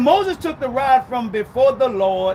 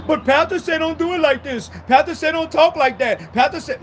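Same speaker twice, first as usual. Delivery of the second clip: whining complainer; 3 semitones higher than usual. Retold or imitated. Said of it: "whiny mock church member".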